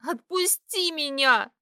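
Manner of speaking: growled plea to let go. A narrator's reading. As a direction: growl it out through tears. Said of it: "прорычала я".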